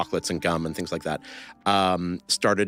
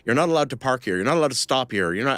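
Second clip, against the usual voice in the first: mild mock yell, pitched higher; retold soldier's yell; 5 semitones higher, faster than usual. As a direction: imitate a soldier barking orders, half-hearted. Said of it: "he's screaming in Hebrew at him".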